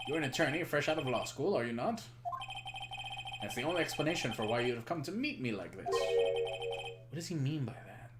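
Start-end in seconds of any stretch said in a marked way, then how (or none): 0.1-5.9 lightly voiced condescending tycoon; pompous executive. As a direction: talk down to a rookie lawyer, mildly. Voices pompous game character.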